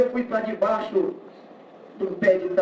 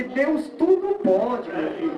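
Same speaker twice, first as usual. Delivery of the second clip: raised pitch, slow drawn-out assurance; assuring mother; 6 semitones higher than usual. Retold or imitated. Mother assuring her son about God, slow and emphatic. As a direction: stretch it out with lifted, lightly acted conviction.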